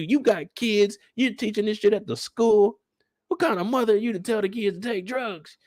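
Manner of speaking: high-pitched mock rant at Candy; a hammed-up furious mother; imitating angry mom. Mom berating the weed tutor, high mock fury. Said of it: "That's how angry she was with Candy".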